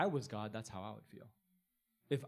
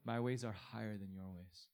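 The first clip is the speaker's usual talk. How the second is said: softer and lower, calm and settled; calm divine answer; 3 semitones lower, 4 dB quieter than usual. Acted. God answering the protester, calm and soft. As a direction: answer the outrage with quiet calm. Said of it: "And he says".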